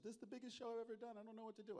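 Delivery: hammed-up voice of a jittery young performer; nervous young performer. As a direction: imitate her rushing out her nerves. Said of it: "she said".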